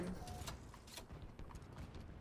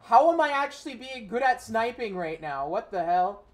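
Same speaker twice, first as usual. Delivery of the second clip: surprised; 4 semitones higher, 8 dB louder than usual. Real, not acted. Suddenly sniping well in game.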